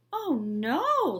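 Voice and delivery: loud, high oh no; quick denial. A narrator's reading. Principal hiding his worry from Ivy, loud denial. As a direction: cover up in a hurry. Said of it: "said Mister Bundy".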